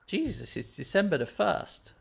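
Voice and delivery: startled high-pitched exclamation; voice jumping up high. Real, not acted. Player suddenly realising the date, voice shooting up high. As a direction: blurt it out, pitch leaping up. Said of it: "My voice went really u-, up an octave then".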